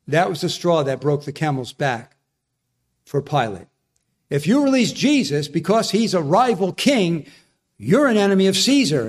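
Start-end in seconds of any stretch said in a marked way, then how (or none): 4.3-9.1 threatening leaders. Retold or imitated. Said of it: "this was their trump card".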